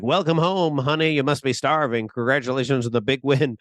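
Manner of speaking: a hint of a mom overcompensating with cheer; overeager mom. Mom greets son, overcompensating.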